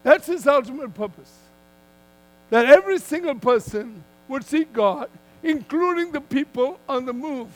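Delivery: firm, measured sermon delivery with punched key words; emphatic preaching. Real, not acted. Preacher telling a congregation God moves people so they seek him, emphatic preaching.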